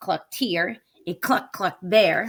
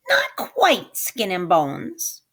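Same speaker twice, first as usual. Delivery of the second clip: grinning; slower than usual. Acted. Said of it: "she grinned".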